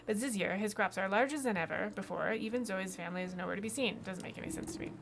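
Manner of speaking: put-on puzzled farmer with a German accent. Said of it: "I have no idea why it's a German accent".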